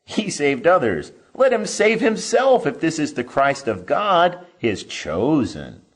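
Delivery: loud, high sneering taunt; mock him from below the cross; scoffing. A narrator's reading. Rulers scoffing at Jesus on the cross, loud sneer. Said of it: "the rulers also scoffed at him".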